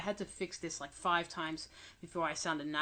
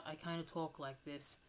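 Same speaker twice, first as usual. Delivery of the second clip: slightly softened, mumbled demonstration; mumbling demo; 6 dB quieter than usual. Shown as a demonstration. Narrator showing how illness makes them talk, mumbled. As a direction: demonstrate a quiet sick-day mumble. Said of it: "not speaking very loud".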